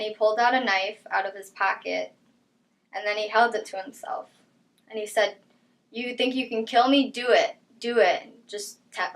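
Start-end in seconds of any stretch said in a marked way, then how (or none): 5.9-8.5 taunting dare, lightly re-enacted, slightly raised; retold taunt. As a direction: mildly imitate someone daring you to act. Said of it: "like, taunting me to do it".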